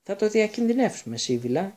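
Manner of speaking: high, sharp, impatient retort; irritated. A narrator's reading. Stern teacher snaps at the fussy seer. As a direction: brush her off, annoyed. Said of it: "είπε εκνευρισμένη".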